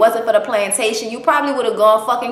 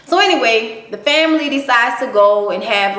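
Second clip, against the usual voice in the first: ordinary talk, nothing marked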